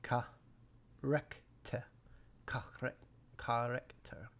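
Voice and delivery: French 'character' broken into separate syllables; French 'character' in pieces, open ah vowels; French pronunciation. Shown as a demonstration. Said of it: "French character".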